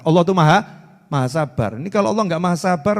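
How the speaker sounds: usual speaking voice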